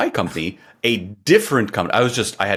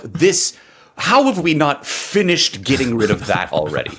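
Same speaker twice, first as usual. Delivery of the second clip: disbelief; 4 semitones higher than usual. Retold or imitated. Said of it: "I'm like".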